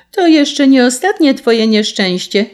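high, loud taunting warning; calling out. A narrator's reading. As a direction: ring it out over the carter's grief. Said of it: "zawołał wróbel".

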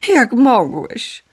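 slow, hurt and reproachful; aggrieved cry. A narrator's reading. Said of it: "wołała rozżalona Gaja".

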